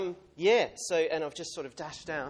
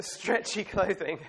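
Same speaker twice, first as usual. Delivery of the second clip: laughing repeat; 4 semitones higher, 4 dB louder, slower than usual. Real, not acted. Repeating a funny suggestion.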